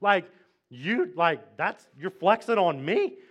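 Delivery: mild mock outrage; furious king. King challenged by three men who won't bow, mock furious. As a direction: play an indignant, incredulous king. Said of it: "the king gets furious".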